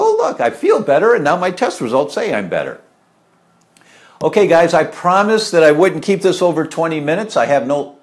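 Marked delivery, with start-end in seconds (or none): 0.0-2.8 high, excited "Oh, look"; a hint of a thrilled patient; imitating happy patient. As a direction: play the relieved patient seeing results. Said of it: "You go".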